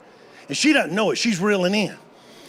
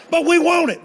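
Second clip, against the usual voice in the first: put-on whiny kids; 8 semitones higher than usual. Granddaughters whining back at grandpa.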